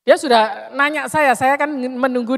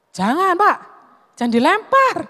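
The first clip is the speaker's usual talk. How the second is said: higher, pleading alarm; urgent pleading; 7 semitones higher than usual. Retold or imitated. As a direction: beg him to stop, alarmed. Pleading with angry driver. (memohon dengan panik kepada sopir)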